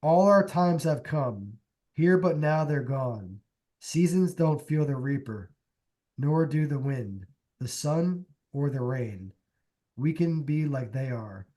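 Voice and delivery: slow, measured recital of lyrics; reading lyrics aloud. Acted. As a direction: recite each line slowly, with pauses between. Reads song lyrics aloud.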